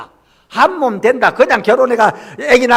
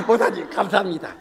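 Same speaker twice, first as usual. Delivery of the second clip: laughing thanks; 6 dB quieter than usual. Retold or imitated. Husband thanks pastor, repeated laughing.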